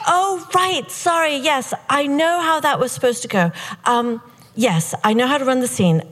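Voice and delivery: flustered apology. Retold or imitated. Flustered reply to the director.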